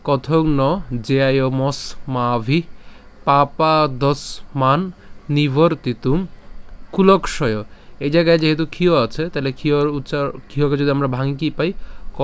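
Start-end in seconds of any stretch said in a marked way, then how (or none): 0.0-7.6 slow, measured chant of the first line; slow recitation. Shown as a demonstration. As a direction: recite the line slowly and clearly. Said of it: "আমি আবার এই প্রথম লাইনটা বলি". (ধীর লয়ে প্রথম লাইন পাঠ)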